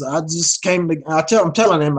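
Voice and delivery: tripping over the words; nervous stammer; stuttering. Real, not acted. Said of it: "like I'm stuttering now".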